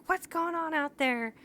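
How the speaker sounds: high, loud call from a window; neighbor calling out. Retold or imitated. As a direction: call out to the noise outside.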